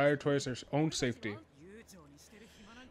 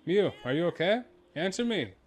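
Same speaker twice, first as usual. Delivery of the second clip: calling out; 4 semitones higher, 3 dB louder than usual. Acted. Calling for missing queen.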